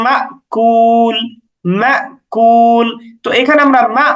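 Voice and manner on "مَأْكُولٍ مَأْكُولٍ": مَأْكُولٍ recited slowly, halting sharply after the first syllable; glottal catch. Shown as a demonstration. Teacher showing sukun on hamza in Surah Fil, abrupt catch in مَأْكُولٍ. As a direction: push and briefly stop on the hamza in مَأْكُولٍ, then draw out the ending. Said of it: "এরকম একটু ধাক্কা দেওয়ার মতো উচ্চারণ".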